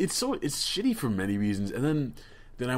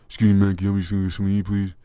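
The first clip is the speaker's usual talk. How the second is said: louder, repeated begging plea; a mock pleading ask for food; imitating the homeless man's plea; 7 dB louder, much faster than usual. Mimicking the man outside the store, pleading. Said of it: "He goes".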